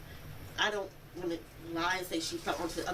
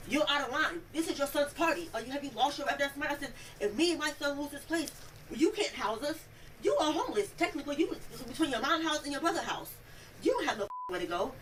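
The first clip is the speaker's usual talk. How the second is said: higher-pitched mock confrontation; retold telling-off; 5 semitones higher than usual. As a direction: lay into him as you retell it. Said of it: "this is literally how I'm talking to him".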